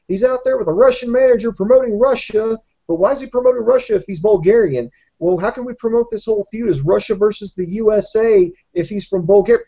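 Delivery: mock bewildered booth voice; mock commentator. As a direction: play the confused announcer thinking aloud. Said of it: "You know, it's like".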